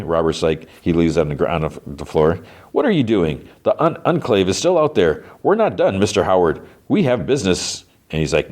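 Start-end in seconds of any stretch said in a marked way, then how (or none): 2.7-7.9 higher-pitched imitated objection; retold protest. Robert objects as Ghoul walks out on him, mild protest. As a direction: lightly act out a higher, insistent protest.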